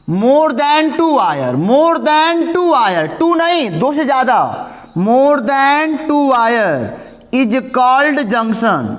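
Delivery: very slow, chunked dictation. Shown as a demonstration. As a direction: drag each phrase out for writing. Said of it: "यानी कि English में क्या लिखोगे".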